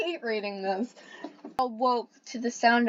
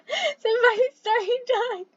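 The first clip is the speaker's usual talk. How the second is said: slow high voice; 12 semitones higher, slower than usual. Acted.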